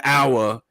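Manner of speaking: "our" said the Australian way, as the actor did; lightly imitated Australian "our". Showing a friend the actor's Australian "our". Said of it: "in, like, Australian".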